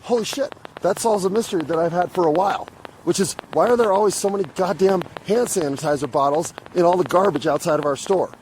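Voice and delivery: high, sudden eureka pitch dropping back toward normal; the penny drops, voice jumps up high; mildly astonished inner thought; amazed realization. Retold or imitated. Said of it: "And I think".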